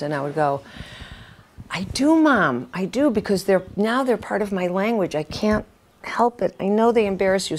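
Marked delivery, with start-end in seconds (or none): 1.7-7.6 higher-pitched plea to mom; pleading self-defence. Retold or imitated. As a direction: protest earnestly, pitched a bit up. Acted reply to her mother.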